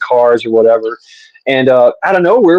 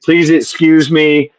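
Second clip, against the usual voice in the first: ladylike; 3 semitones higher, slower than usual. Retold or imitated. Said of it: "she was being a lady".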